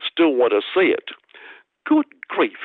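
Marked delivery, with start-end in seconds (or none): 1.9-2.6 good grief. Acted. Mock dismay at the doubters.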